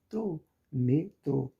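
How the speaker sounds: "Trô" alone, then slow "metrô" weighted on trô; stress on final syllable. Shown as a demonstration. Teacher answering which syllable is stronger, stress on final syllable. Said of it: "Qual a sílaba mais forte?".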